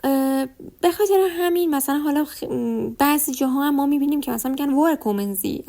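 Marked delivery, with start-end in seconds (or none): 4.7-5.6 وارکومنزی with the r sounded, not turned into "a"; r kept. Shown as a demonstration. Teacher shows variant heard in some places, وارکومنزی with audible r. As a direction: keep the r audible in the first part of وارکومنزی.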